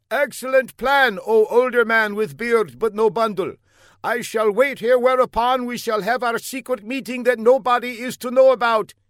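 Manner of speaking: high, loud, eager put-on voice; comic shout. A narrator's reading. Fla shouts to the older man, high and eager. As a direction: shout it with silly zeal. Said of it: "shouted the young man".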